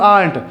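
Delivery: "aren't" run together as aant, r dropped; fast aren't. Shown as a demonstration. Teacher shows how it sounds spoken fast, r dropped. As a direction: say "aren't" in one beat without the r. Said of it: "fast बोलेंगे".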